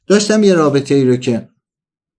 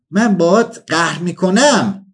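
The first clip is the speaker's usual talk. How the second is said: put-on northern accent; slower than usual.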